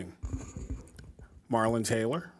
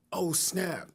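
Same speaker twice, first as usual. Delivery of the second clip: laughing surprise; 4 semitones higher than usual. Retold or imitated. Retelling surprise call to wife.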